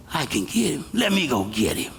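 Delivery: lightly voiced humble youth; humble boy. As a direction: answer the king modestly. David answering the king humbly.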